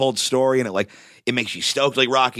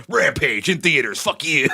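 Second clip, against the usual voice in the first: mock hype shout, drawn out, slightly higher; The Rock plugging his movie; 3 semitones higher than usual. Podcaster mimicking The Rock's gym selfie ad for Rampage, hyped-up mock shout. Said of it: "just The Rock filming a selfie".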